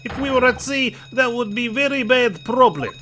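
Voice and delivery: angry sailor shout. Acted. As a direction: catch the intruder red-handed. Sailor angrily catches intruder.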